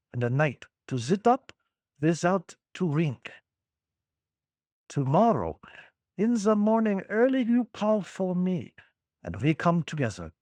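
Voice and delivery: put-on lightly German-accented confident professor; a rough German accent, ending in a hearty laugh. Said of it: "bad German accent".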